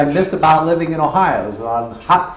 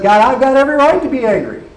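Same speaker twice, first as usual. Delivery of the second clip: angry Jonah; 8 semitones higher, 3 dB louder than usual. Acted. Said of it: "And he says".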